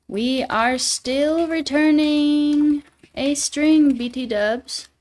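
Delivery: a playful hammed-up British read; mock British accent. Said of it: "A little bit of Brit salient?".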